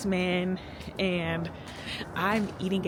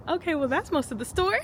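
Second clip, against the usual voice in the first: lightly imitated, high-pitched shop clerk; bookseller's reply; 10 semitones higher, 4 dB quieter than usual. Imitating the bookseller answering a picky customer, high-pitched. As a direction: pitch it up as a mildly mocked bookseller.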